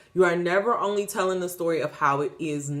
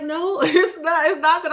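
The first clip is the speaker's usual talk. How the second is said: laughing disbelief; 8 semitones higher, 6 dB louder than usual. Retold or imitated. God's laughing, incredulous reply.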